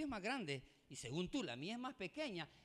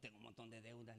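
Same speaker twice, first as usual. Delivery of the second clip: very soft, low admission; hushed low quote of oneself; subdued retold confession; 9 semitones lower, 15 dB quieter than usual. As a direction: confide it quietly, retelling the moment. Retold private chat about debts.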